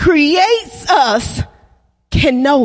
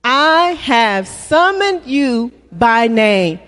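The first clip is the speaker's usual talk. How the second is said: slow, lower, spaced words; slow call to repeat; 4 semitones lower, slower than usual. Shown as a demonstration. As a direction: lead the congregation through the line. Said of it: "Say that with me".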